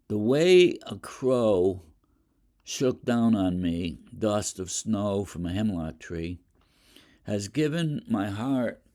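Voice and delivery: slow, deliberate poetry recital; poem reading. Acted. Teacher reciting Dust of Snow to students, slow and deliberate. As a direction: savor each line of the poem.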